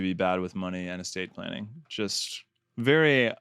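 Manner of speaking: dry sarcasm, stretching out "very"; deadpan mock surprise at the obvious; sarcastic. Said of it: "that is sarcasm".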